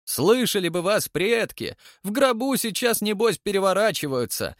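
high-pitched, heated scolding; angry tirade. A narrator's reading. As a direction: berate him in an outraged, high voice. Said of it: "в гневе председатель". (гневная отповедь на высоких тонах)

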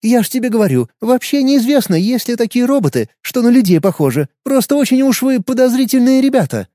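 put-on high, brash young woman talking down; cheeky condescending. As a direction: dismiss him with cheeky scorn. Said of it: "борзо-снисходительным тоном".

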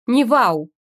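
loud annoyed bark. Acted. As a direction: cut the wow short angrily. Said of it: "рявкнула я".

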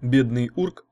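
usual speaking voice

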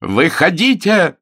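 loud, drawn-out yell; slow loud bellow of «Выходите». A narrator's reading. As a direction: shout him out of hiding. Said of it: "завопил Ронни".

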